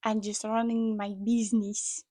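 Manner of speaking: half-hearted attempt at a Russian accent; bad Russian accent. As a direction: try a Russian accent and don't quite manage it. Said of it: "I can't really do a Russian accent".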